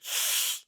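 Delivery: sharp unvoiced wince sound; breathy mock wince; wincing intake. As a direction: make the noise of someone wincing. Imitating people's reaction to Alberta.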